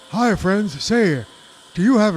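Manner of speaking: radio announcer. Acted. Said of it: "I sound like Ricky Radio".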